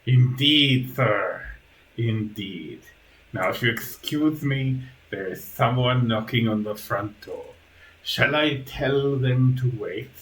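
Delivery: lightly voiced creepy butler; a hint of a dutiful creature servant; Igor, deferential servant. Igor announces a caller at the door, deferential.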